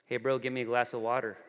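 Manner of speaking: quick, offhand imitation of a big sister; casual sibling request. Older sister at dinner to her brother, casually bossy. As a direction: toss out the request lightly and quickly.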